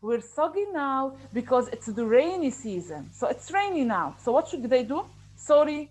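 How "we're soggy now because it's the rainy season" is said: a cheerful little termite voice; happy termite. Acted. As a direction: greet the audience happily. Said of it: "he shows from his voice, voice intonation that he's happy".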